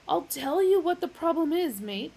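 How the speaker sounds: loud, high blustering. Acted. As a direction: tell him straight loudly. Magic Thighs blustering.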